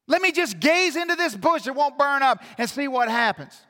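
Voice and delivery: rally the congregation, pleading and urgent; fiery preaching. Acted. Preaching at full force.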